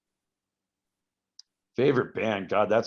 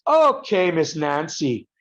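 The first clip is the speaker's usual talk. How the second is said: high, mocking jab from the bartender; 5 semitones higher, 3 dB louder, slower than usual. Irish bartender mocking the American: sneering high taunt. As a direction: sneer it like a teasing barman. Bartender mocks him as Nancy.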